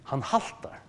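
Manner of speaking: whispered, almost breathless Han haltar; a hushed answer about limping Jacob. Shown as a demonstration. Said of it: "Martin Lloyd Jones svarar".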